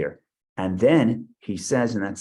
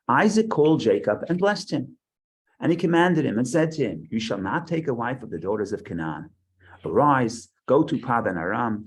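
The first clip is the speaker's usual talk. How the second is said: scripture reading; 2 semitones higher than usual. Acted. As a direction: proclaim the verses to the class. Reads scripture aloud to class.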